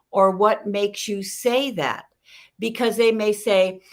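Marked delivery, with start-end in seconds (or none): 0.3-2.0 slow, drawn-out question; measured question. Shown as a demonstration. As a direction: stretch it out, asking with care. Models a calm clarifying question.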